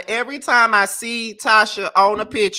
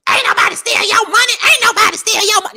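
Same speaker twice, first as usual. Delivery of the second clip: much higher, fast, loud denial; fast high mock yell of the denial; mocking the mama; 13 semitones higher, 5 dB louder, faster than usual. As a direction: mimic the family brushing her off. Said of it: "they keep on saying".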